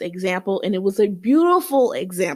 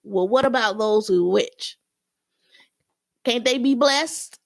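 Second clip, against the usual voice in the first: whiny interruption; 3 semitones higher than usual. Retold or imitated. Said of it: "you cut him off and said".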